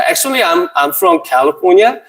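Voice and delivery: very slow, halting English from an adopted Californian; Korean-American accent. Pretend. Preacher posing as a Californian adoptee, very slow halting English. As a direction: play a hesitant Korean-American missionary. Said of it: "캘리포니아에서 왔습니다".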